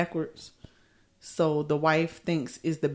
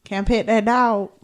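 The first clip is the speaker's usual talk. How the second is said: put-on country accent; 4 semitones higher than usual. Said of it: "he got a real country accent".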